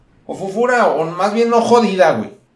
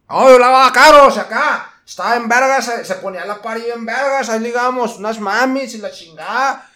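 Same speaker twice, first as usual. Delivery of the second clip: higher, swaggering car-wash cholo boasting; cholo podcast guy; 7 semitones higher, 4 dB louder than usual. Retold or imitated. Young car washer boasting to his podcast listeners, higher swaggering cholo voice. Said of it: "suena neta a un podcast que yo haría".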